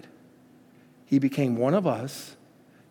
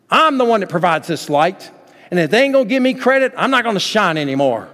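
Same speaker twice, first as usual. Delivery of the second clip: higher, louder indignant grumble, speeding up on the complaint; moon on strike; 4 semitones higher, 6 dB louder than usual. Pretend. Preacher voicing a sulking moon to his congregation, indignant and loud. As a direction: play the moon demanding its credit. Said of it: "imagine our moon going on strike, saying".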